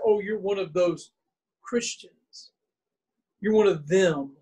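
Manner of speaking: mock disdain, "Christians" nearly whispered; derisive. Onlookers putting down followers of Jesus, derisive. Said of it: "people would deride or put down".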